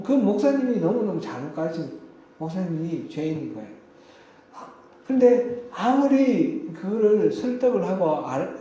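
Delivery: ordinary talk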